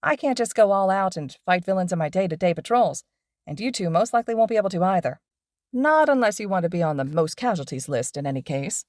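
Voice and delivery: lively pro hero explaining to students; cheerful teacher lecturing his two students on patrol; upbeat hero teacher. Acted. Mike Sensei with a wink.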